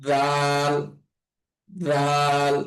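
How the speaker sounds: দাল as a soft "dhaal", tongue between the teeth; tongue lightly between teeth on দাল; gentle lisped th at the start of দাল; soft articulation. Shown as a demonstration. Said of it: "দালের উচ্চারণটা অনেক নরম হবে".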